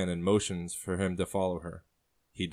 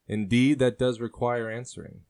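man's voice, louder on indeed, a bit higher; sailor's reply; 4 semitones higher, 3 dB louder than usual. Acted. Sailor answers the woman's question, loud and charming. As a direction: weigh her question like a charming rogue. Man answers, she later echoes.

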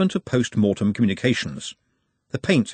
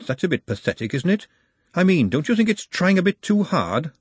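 much higher, hoarse skeleton voice; a cheery skeleton with a hoarse high voice; 7 semitones higher than usual. A narrator's reading. Skeleton Charlie speaks.

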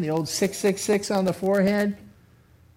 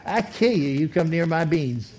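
laughing mock threat. Joking hoarder voice, laughing.

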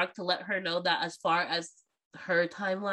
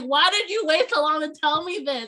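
mock outrage; 9 semitones higher, 3 dB louder than usual. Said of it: "I'm like".

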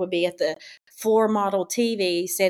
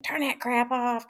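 annoyed grandpa; 6 semitones higher than usual. Retold or imitated. Grandpa interrupting kids' TV.

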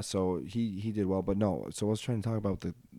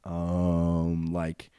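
exaggerated filler words; 4 dB louder than usual. Shown as a demonstration. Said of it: "say um a lot and, like".

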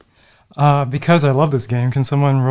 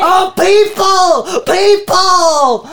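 loud, drawn-out calls for help; calling out prisoner; 5 dB louder, much slower than usual. Acted. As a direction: hail them like a desperate captive.

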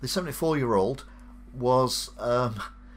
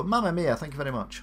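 put-on Italian accent; 4 semitones higher, faster than usual. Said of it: "I've done the accents the wrong way around".

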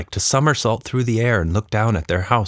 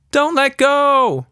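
higher, louder, slow plea; frightened cry; 4 dB louder, slower than usual. A narrator's reading. Tilda swinging high pleading with the creature, frightened cry. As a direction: call out scared while swinging high. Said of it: "she cried".

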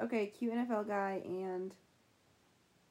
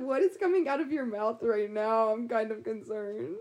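laughing; 4 dB louder than usual. Retold or imitated. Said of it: "I was like".

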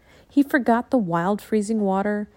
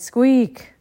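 Squeak. whispered flat and reluctant; a sulky little whisper of Squeak; grudging whispered squeak; 3 semitones higher, 7 dB louder than usual. Acted. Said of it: "Jack groaned".

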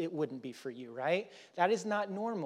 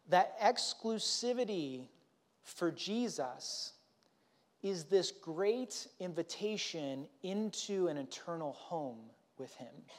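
tender emphasis; 3 dB quieter, slower than usual. Real, not acted. Slow, tender emphasis in sermon.

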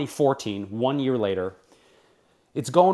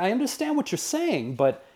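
semi-contentious. Retold or imitated. Host retelling his argument with network executives, mildly contentious. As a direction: argue back with restrained frustration. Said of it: "semi-contentious conversation with them".

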